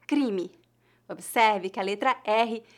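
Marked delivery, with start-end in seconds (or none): 0.0-0.5 "Crime" as CREE-mee, faint ending; weak final I. Shown as a demonstration. Teacher showing learners final E, weak final I. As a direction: say "Crime" with slightly nasal first vowel, weak last. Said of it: "como um I fraco".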